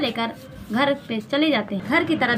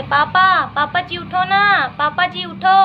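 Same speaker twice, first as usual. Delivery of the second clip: put-on lightly higher pleading girl's voice; coaxing daughter; 5 semitones higher, 4 dB louder than usual. Daughter coaxing sleeping father to get up, lightly higher. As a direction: sweetly coax dad awake. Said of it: "पापा से बोलती है".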